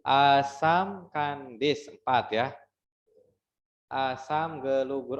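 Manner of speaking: "Asam kandis" slow, syllables apart; counting syllables. Shown as a demonstration. Teacher recounting a pupil's answer. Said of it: "kita coba hitung".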